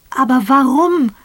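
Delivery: loud, high cry of despair; the question bursts out of him; grieving husband crying out; anguished outcry. Acted. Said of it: "Es schrie aus ihm heraus".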